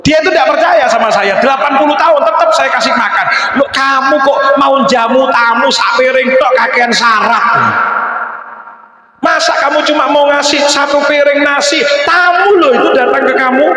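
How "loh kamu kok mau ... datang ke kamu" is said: higher, shouted divine scolding; God rebuking his prophet in a raised voice; scolding rebuke. Acted. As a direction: tell him off for the stingy welcome. Allah scolds Ibrahim over guest.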